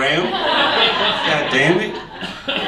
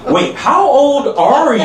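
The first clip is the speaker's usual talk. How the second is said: put-on shocked girl; 9 semitones higher, slower than usual. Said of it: "She stopped abruptly, like".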